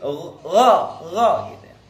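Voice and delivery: "gha" voiced from the throat, like Arabic ghain; ghain sound demo. Shown as a demonstration. Teacher showing the wrong kha that sounds like "gha". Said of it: "kalau hilang kayak ghain".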